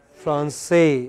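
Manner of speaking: "Francais" with the last syllable stressed and held; fran-SAY, weight on the end of "Francais"; French final stress. Shown as a demonstration. Teacher showing how French speakers pronounce it, final stress on "Francais". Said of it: "they pronounce it as".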